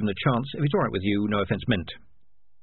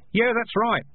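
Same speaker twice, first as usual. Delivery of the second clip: high-pitched call, only mildly raised; shouted agreement; 10 semitones higher, slower than usual. A narrator's reading. Someone in the crowd backing the kid, calling out. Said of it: "someone else shouted".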